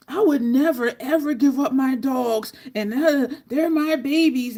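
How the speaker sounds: loud, indignant mock protest; imitated yelling. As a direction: act out an all-caps rant. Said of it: "I'm yelling 'cause he was yelling".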